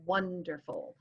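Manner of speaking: "WONderful", first syllable stressed; dactylic stress. Shown as a demonstration. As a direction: hit "WON", let "derful" fall away. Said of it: "first one gets the emphasis".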